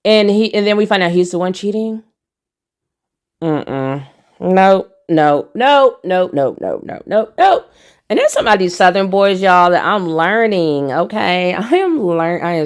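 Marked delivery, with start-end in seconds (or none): 3.4-7.7 emphatic refusal. Real, not acted. Vlogger rejecting the cheating husband's behaviour, emphatic swooping refusal. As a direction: rattle off no's in a swooping pitch.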